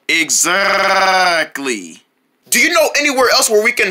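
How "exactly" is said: one very slow drawn-out word; slow shopkeeper voice. Acted. Clerk confirming to the boys, very slow. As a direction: stretch it like a bored clerk. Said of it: "talking like that makes me wanna gag".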